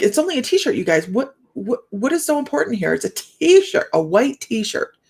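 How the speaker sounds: high, exasperated mock scolding; high, slowed mock disbelief; retold exasperation. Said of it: "I started, like".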